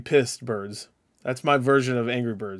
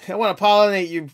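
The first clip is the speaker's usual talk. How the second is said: camp it up on the second try; silly high voice; 6 semitones higher than usual. Pretend. Repeating the pollinate line to chat, high and giggly.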